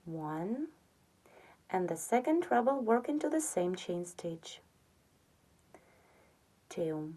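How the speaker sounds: half-whispered count and aside; soft counting. Real, not acted. Counting treble stitches for viewers, half-whispered. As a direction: murmur the count while working the hook.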